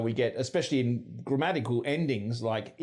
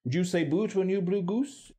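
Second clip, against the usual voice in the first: higher-pitched RP demo; 7 semitones higher than usual. Shown as a demonstration. Presenter showing British vowels, in RP. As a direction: say it in Received Pronunciation, pitched up. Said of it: "R P".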